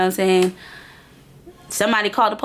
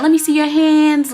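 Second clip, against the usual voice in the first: commanding cop; 7 semitones higher, 6 dB louder than usual. Retold or imitated. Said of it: "they're like".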